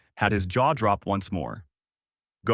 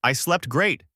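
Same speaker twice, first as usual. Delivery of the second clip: high, lightly acted exclamation; cheerful yell; 6 semitones higher, slower than usual. A narrator's reading. Luffy bursting out of his barrel, mild happy yell. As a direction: burst out with a contained, higher-pitched yell. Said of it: "smashes the barrel open and yells out".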